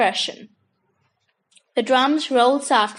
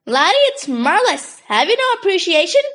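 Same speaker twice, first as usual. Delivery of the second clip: indignant exclaim; 6 semitones higher than usual. A narrator's reading. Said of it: "Polo exclaimed".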